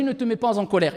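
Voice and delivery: understated, soft word of advice; quiet quoted counsel. Retold or imitated. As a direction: quote the counsel softly and evenly. First telling of the advice.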